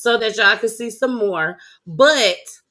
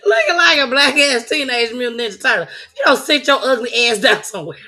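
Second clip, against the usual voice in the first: roasting him; 3 dB louder than usual. Real, not acted. Roasting the cousin's picture.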